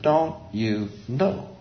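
soft, very slow, word by word; hushed, simple, drawn-out asking; kindergarten-level question. Acted. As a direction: gently spell it out for a small child. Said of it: "comes right into the kindergarten level".

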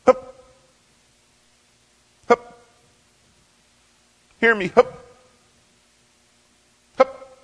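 loud, high cries into the wind; distant musher's calls. Retold or imitated. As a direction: keep calling the dog as he disappears. Voice carried back by the wind.

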